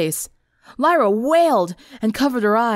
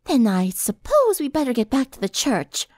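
higher, reluctant suggestion; groaning resignation; 4 semitones higher than usual. A narrator's reading. Rarity giving up and heading back to church, groaning. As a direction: give in with a groan. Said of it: "She groaned".

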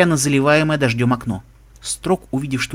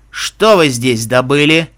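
stern guard; 5 dB louder, slower than usual. Acted. Guard catches intruders, slow stern.

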